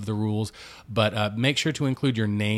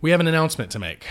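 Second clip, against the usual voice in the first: big, bright announcement voice; announcing big news; 6 semitones higher, 5 dB louder, much faster than usual. Real, not acted. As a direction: build it up like a reveal. News teaser after podcast housekeeping.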